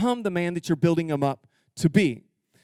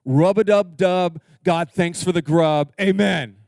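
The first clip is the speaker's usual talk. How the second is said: slow, louder sing-song grace; mock clumsy husband praying; hammed-up rhyming grace; goofy prayer; 6 dB louder, slower than usual. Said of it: "And he's like".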